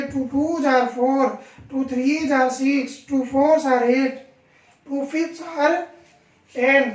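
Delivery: slow, separated "threes are six"; correct pronunciation. Shown as a demonstration. Teacher correcting the times table, slow, careful "fours are eight". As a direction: stretch out "टूज are", clear plural z and full "are". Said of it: "सही उच्चारण इसका ये".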